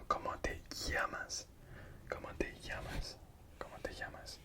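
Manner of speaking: ¿Cómo te llamas? with ll said as y, whispered; llamas with a Y sound. Shown as a demonstration. Teacher correcting the ll in llamas, whispered Y sound. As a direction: say llamas as yamas. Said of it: "it's not pronounced L, it's Y".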